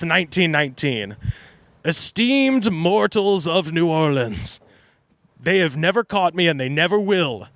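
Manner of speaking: a touch of the grand villain; reading killer's letter. Retold or imitated. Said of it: "writes this".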